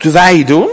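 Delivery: the word wij leaned on hard with strong stress. Showing another way to stress a group question: stress on wij. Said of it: "Je kunt ook de nadruk leggen op wij".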